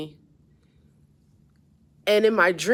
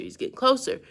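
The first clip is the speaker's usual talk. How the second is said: closer said much higher in pitch; tense repeat, pitched way up; rising alarm; 8 semitones higher, faster than usual. Real, not acted. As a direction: let the panic lift the voice up high. Alligator gaining on them.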